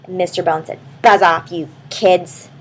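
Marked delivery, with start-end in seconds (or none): 1.0-2.5 grumpy. Acted. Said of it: "He was all grumpy".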